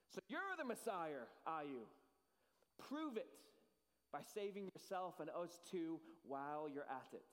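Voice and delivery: mocking challenge, rising on prove; scoffing. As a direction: sneer out the dare to prove it. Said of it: "he scoffed".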